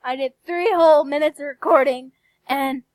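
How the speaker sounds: loud, frustrated rant; venting real anger, loud; angry. Real, not acted. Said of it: "I'm pissed".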